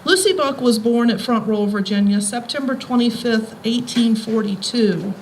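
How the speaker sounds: measured public reading of a passage; reading aloud. Acted. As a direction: read it out to the audience like a tribute. Reads a biography passage aloud.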